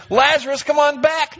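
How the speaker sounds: very high, loud call from afar; echoing summons; summoning call. Retold or imitated. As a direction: call him back from eternity. Jesus calling to Lazarus.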